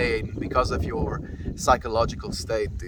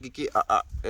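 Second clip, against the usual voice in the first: shooing the dog; faster than usual. Real, not acted. Fending off the dog.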